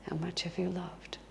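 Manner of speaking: whispered, very soft question; hushed, solemn inner voice; voice of Jesus. Retold or imitated. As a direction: whisper it like a voice remembered within. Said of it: "he could hear the voice of Jesus".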